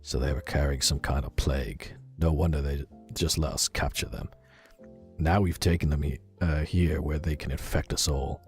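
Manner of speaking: put-on tentative, understated British accent; attempted British accent. Operative grumbling in his log about guard duty, amateur British accent. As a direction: read the log with a shaky grasp of British vowels. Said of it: "I'm gonna try a British accent".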